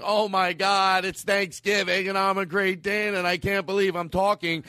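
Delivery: be an astonished dog that suddenly talks; talking Great Dane. Retold or imitated.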